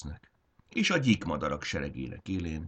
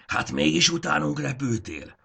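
much higher, louder glad call upward; calling up joyfully; 10 semitones higher, 6 dB louder than usual. Acted. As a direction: call up to the sky, delighted. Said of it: "kiáltotta a magasba".

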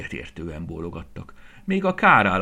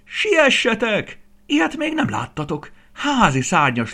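crowing rooster; 8 dB louder than usual. Acted. Rooster calling the farmyard, crowing high and loud. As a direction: call the whole yard over like a rooster.

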